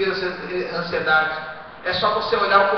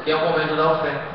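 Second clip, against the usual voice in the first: declare it loud; 6 dB louder than usual. Shown as a demonstration. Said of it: "Fala assim".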